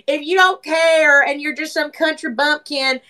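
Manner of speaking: put-on slow, drawn-out country Southern accent; lightly exaggerated Southern twang. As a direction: slip into a Southern country drawl. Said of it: "The accent shift".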